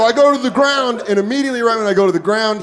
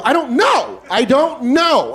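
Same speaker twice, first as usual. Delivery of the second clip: scared pleading; 5 semitones higher, slower than usual. Retold or imitated. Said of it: "my tone goes from scared to".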